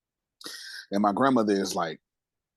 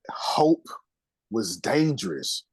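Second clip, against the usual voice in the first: choked whisper; much slower than usual. Real, not acted. Confessing painful childhood.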